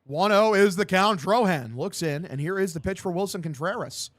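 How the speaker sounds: live baseball commentary; punchy sportscaster delivery; play-by-play. Acted. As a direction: call the pitch like a radio announcer.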